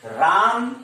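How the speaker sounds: राम with weight on its opening रा; teacher demonstrating syllable stress on राम. Shown as a demonstration. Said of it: "राम तो रा पर".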